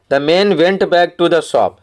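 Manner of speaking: very slow, every word spaced out for the class; slow read-aloud. Shown as a demonstration. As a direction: read the line slowly so pupils can follow. Teacher reads story passage slowly.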